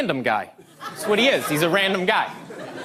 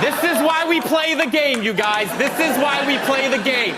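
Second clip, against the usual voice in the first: exhilarated; 4 semitones higher than usual. Acted. Psyching up as prank escalates.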